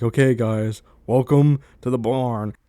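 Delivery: slow, loud host voice, drawing it out; mock spooky welcome. Welcoming friends into the dark barn, slow and loud. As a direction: play the creepy tour guide at the barn door.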